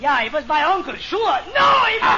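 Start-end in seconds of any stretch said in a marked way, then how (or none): 1.5-2.2 high loud protest; angry. Acted. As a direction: bark the denial. Angry denial.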